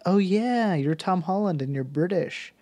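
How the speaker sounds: exaggerated going-along reply; mock realization. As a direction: play a crew humoring the star. Acting out the crew's reply.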